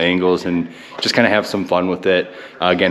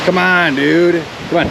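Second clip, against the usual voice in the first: high, raised call to a dog; 9 semitones higher, 3 dB louder than usual. Real, not acted. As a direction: urge the dog on from a distance. Calling the dog.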